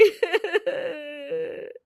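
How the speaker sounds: trailing put-on sobs; hammed-up weeping sound; fake sobbing. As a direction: let the fake cry fade out in sobs. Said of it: "जोर जोर से रोने लगती है".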